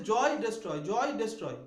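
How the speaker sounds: জয় ডেস্ট্রয় paired to show the shared "oy" ending; teacher matching জয় with ডেস্ট্রয় by ear; rhyme demonstration. Shown as a demonstration. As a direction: sound out জয় and ডেস্ট্রয় as a rhyme, falling at the end. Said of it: "মিলছে না?".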